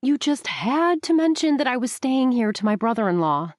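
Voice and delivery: a hint of an annoyed young woman; Rebecca, complaining. A narrator's reading. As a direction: narrator voicing Rebecca's grumble.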